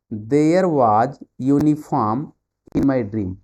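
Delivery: very slow, drawn-out reading; slow quiz read. Shown as a demonstration. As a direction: stretch the sentence out slowly. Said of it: "reads question slowly". (धीरे-धीरे वाक्य पढ़ना)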